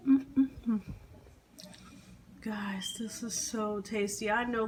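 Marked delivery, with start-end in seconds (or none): 2.5-4.3 breathless whisper of delight; excited whisper. Real, not acted. Cook savoring the food, whispering to her viewers. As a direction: whisper it, thrilled by the taste. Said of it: "I whisper when I get excited".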